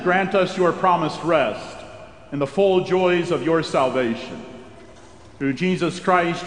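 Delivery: ordinary delivery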